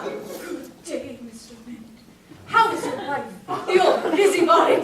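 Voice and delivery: put-on a tipsy girl rudely quizzing a neighbour; tipsy greeting. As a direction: play her giggly and tipsy. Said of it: "she's drunk!".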